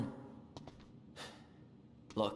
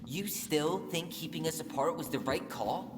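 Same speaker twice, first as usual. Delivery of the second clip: much higher, raised and pleading; heated anger; 6 semitones higher than usual. Acted. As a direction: demand he admit he was wrong. Heated argument with uncle.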